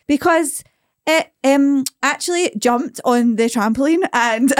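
put-on child laughing through joke. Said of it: "And he'd be like".

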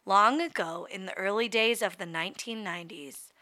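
hushed fairy-tale storyteller; storybook narration. Acted. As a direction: read it like a bedtime story. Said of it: "I'm gonna read to you like a story".

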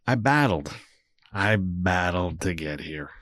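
slow, hushed mock-epic battled; hammed-up dramatic I battled. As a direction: play it like a movie trailer, half joking. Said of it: "let's make it dramatic".

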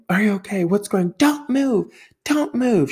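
mom's urgent orders, high and loud; mock ER scream. Mom ordering her fallen husband not to move, high urgent shouting. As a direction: command him to stay still, like an ER nurse. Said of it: "She starts screaming".

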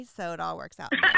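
quick words through a laugh. Real, not acted. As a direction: laugh it out fast. Laughs at own crying.

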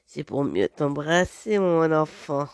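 big bad wolf. Wolf answers the girl's question, low and sly. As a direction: purr it slyly as the wolf.

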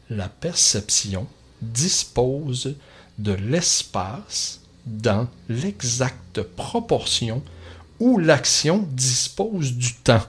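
slow, deliberate read of «dispose»; careful slow reading. Shown as a demonstration. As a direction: read «l'exacte» carefully, without stumbling. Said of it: "Je vais le répéter comme il faut, sans cafouiller".

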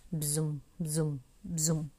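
low voiced buzz, drawn out; queen bee buzzing. A narrator's reading. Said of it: "zabrzęczała królowa". (brzęczenie królowej pszczół)

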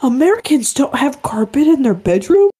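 faintly British-sounding disbelief; mock British person. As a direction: play the shocked foreigner, lightly. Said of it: "British person will come out and be like".

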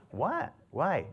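a sharp, high "What?" of disbelief; surprised. Retold or imitated. Grandpa to granddaughter who kicked her brother, surprised and high. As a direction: caught off guard, asking why.

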